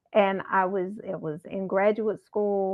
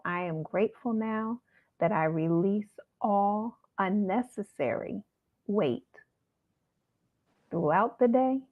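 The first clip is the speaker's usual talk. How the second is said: mantra recital. Shown as a demonstration. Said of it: "put that in whatever order you want".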